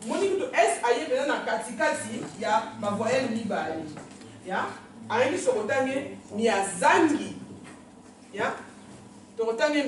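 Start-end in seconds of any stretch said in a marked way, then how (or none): 6.3-7.4 Mia Zangi said very slowly, stress on Zangi; slow demo. Shown as a demonstration.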